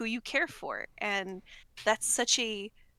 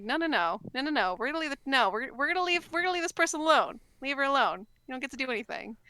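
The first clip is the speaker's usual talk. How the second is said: raised, rising protective mother; 4 semitones higher, faster than usual. Retold or imitated. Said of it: "it's like a motherly desire to fight".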